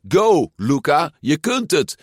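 high, loud cheering; children cheering the cyclist loudly; kids cheering. A narrator's reading. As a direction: cheer him on. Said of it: "de kinderen met ijsjes riepen".

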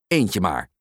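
low, firm mother; stern. A narrator's reading. Mum limiting her son to one toy, stern. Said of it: "zegt mama streng".

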